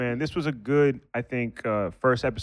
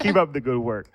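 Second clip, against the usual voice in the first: laughing repeat. Retold or imitated. Repeating the cop's parting words while laughing. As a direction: echo the line through a laugh.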